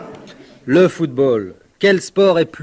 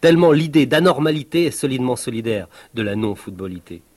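normal talking voice

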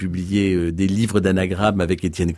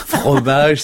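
delighted echo; 5 semitones higher, 5 dB louder than usual. Real, not acted. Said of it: "mais c'est magnifique".

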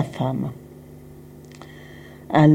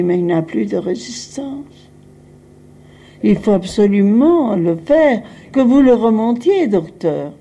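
retold urgent insistence; 4 semitones higher than usual. Insisting the doctor revive him.

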